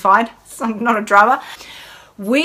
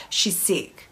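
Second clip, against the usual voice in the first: worried murmur; 9 dB quieter than usual. Retold or imitated. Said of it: "It was like".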